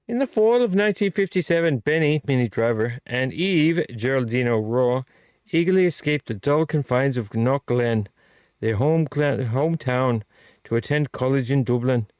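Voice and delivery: hammy mock-Irish read, lightly put on; leprechaun-style Irish lilt; bad Irish accent. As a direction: read it out in a shaky attempt at Irish. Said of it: "my very bad Irish slash, ... leprechaun accent".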